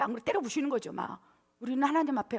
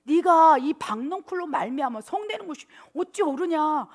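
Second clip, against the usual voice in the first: raised, louder questioning rebuke; God rebuking Jonah; 4 semitones higher, 6 dB louder than usual. Acted. God questioning Jonah over the gourd, loud reproving voice. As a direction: pronounce the rebuke loud and pitched up. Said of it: "하나님이 요나에게 이르시되".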